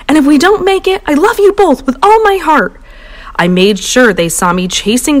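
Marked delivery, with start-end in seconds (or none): 0.1-2.7 high, hammed-up farewell; parent's overblown farewell; melodramatic panic. A narrator's reading. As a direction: overdramatic dying goodbye.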